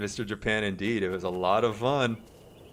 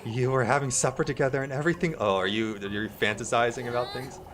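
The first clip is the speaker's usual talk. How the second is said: much higher, needling squeak; sly nosy neighbour; 4 semitones higher than usual. Acted. Neighbour needling Elise, high sly squeak. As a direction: turn the accusation back slyly.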